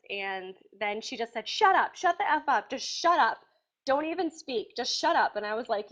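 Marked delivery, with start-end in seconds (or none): 1.5-5.4 retold angry outburst. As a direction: snap it like she's losing it. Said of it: "You sound like a monster".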